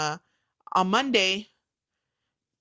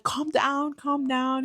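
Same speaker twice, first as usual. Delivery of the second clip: imitated soothing friend; 5 semitones higher, much slower than usual. Friend soothing her on phone.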